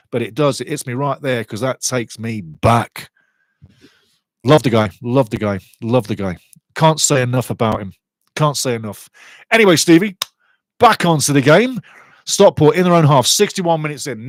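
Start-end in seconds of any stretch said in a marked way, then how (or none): 0.6-9.1 emotional. Real, not acted. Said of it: "you can hear it in my voice".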